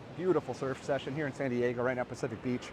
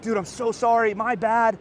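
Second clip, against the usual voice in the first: flustered apology; 7 semitones higher, 6 dB louder than usual. Retold or imitated. Apologizing to partner, retold.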